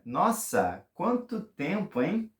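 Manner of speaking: quanto tempo hein jumping high, rising tag; amazed. Shown as a demonstration. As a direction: marvel and nudge at once. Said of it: "But you can combine".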